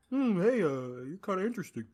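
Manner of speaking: lightly voiced flirt, starting high; mock flirting. Retelling a man hitting on Sidney, mock flirting.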